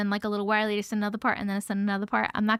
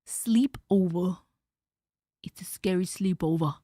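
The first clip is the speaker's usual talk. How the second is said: spooky title voice; 6 semitones lower, 4 dB louder, slower than usual. Acted.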